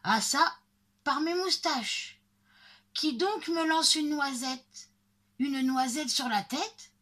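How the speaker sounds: high, indignant woodcutter's outburst; indignant cry. A narrator's reading. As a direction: cry out in storybook outrage. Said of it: "le bûcheron crie". (cri indigné de bûcheron)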